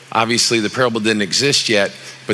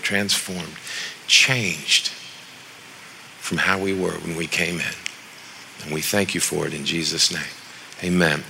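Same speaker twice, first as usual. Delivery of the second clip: prayer. Acted. Pastor prays before preaching.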